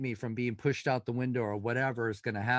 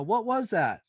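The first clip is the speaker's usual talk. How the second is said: retold yell; 8 semitones higher, 4 dB louder than usual. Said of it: "Dave Spinks yell upstairs".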